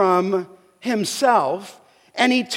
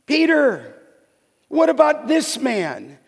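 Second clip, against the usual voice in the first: Peter's pointed question; 3 semitones higher than usual. Retold or imitated. Peter turning to Jesus about John, pointed and questioning. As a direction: turn it back on him, a little sharp. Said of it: "it's hard to get the tone inflection".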